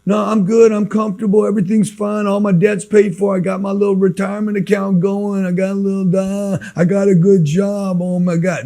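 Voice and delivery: lightly mock the guy who thinks he's fine; mildly mocking complacent voice; smug comfortable guy. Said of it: "Show me a person with like".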